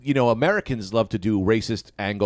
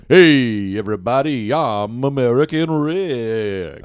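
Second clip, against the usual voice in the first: American accent; 2 semitones lower, slower than usual. Shown as a demonstration. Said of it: "I'll do an American accent right now".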